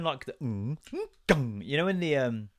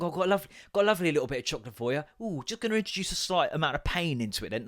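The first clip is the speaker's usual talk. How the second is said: mock sweet offer; 3 semitones higher, faster than usual. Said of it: "It's like".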